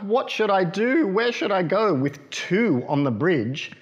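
Mother Duck. Acted. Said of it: "quacked Mother Duck".

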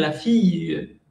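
fille ending on a soft e sound, fi-ye; fille with final e. Shown as a demonstration. Teacher showing the southern French fille with a final e. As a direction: add a light e after fille. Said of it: "uno hace como la E al final".

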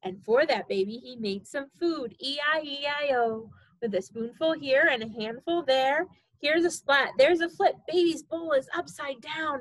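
sing-song storybook reading; reading to a toddler. Acted. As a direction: read it bouncy for a baby.

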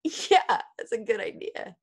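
lightly voiced agreeable baby; a hint of a child cheering up; imitated toddler. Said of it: "And the baby went".

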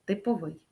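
"типовий" stressed on ВИЙ; stress on final syllable. Shown as a demonstration. Teacher sums up the rule, "типовий" with final stress. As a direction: put the weight on the end of "типовий". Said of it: "наголос на останній склад".

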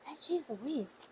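breathless whisper, slowed down; whispered dismay. Real, not acted. Vlogger whispering in dismay at a twelve-dollar envelope. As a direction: hush it out in disbelief at the price.

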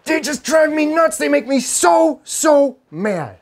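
high whiny put-on voice mocking his wife; husband mimicking his wife's complaint in a high whine. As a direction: squeak it out like a fed-up wife, stretching "so". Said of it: "She says it all the time".

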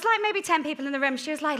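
ordinary talk

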